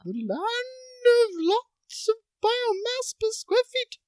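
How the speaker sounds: swooping, theatrical mock announcer; film-star impression. Host introducing Jennifer in a put-on swooping star voice. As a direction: introduce with hammed-up lilting swoops. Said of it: "use one of these voices".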